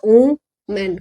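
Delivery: वुमेन said as "o-men"; wrong pronunciation. Shown as a demonstration. Teacher imitating how some students misread वुमेन. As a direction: mimic the common mistake on वुमेन. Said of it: "कोई कोई इसको वुमेन भी पढ़ देता".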